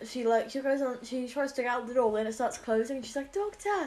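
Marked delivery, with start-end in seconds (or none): 3.3-3.9 high-pitched imitated distress call; mock cry for help. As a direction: call out as a trapped companion, hammed-up. Trapped Romana calls for help.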